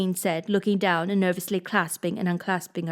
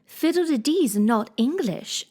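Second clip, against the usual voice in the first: grave; 5 semitones higher, slower than usual. Acted. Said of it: "Alice replied gravely".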